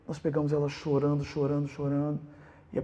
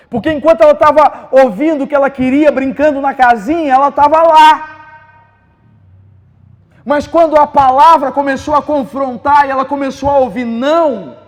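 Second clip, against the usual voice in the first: much higher and louder, driving the point home; full-force preaching; 14 semitones higher, 20 dB louder than usual. Acted. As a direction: preach it hard to the congregation. (pregação inflamada, bem alta e aguda)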